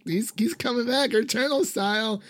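fast, eager imitation of your own excitement rising to a high peak; excited fan theory rant. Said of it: "I was like".

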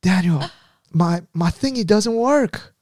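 whiny coach voice. Retold or imitated. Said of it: "he'd be like".

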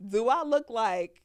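slow, indignant mama challenge; lightly voiced mother, drawing out each word; Black mama voice. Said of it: "in my best black mama voice".

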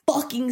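"fucking" hit hard inside the retold line; stress on fucking. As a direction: punch the word "fucking". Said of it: "I'm emphasizing that he said".

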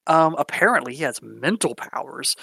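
high, bright hostess voice of the mother; mom voice. Acted. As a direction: introduce him like a gushing mother. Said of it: "your mom's like".

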